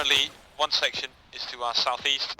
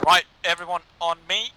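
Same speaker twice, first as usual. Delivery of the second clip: combat callout; 3 semitones higher, 5 dB louder than usual. Real, not acted. Squad leader rallying under fire.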